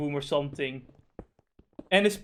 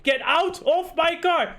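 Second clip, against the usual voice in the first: higher, slow, forceful order; mock angry driver; 11 semitones higher, 4 dB louder, slower than usual. Driver ordering Karen out of his car, mock angry. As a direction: demand she leave the car, dragging it out. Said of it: "he's like".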